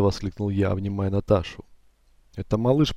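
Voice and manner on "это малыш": ordinary delivery, nothing marked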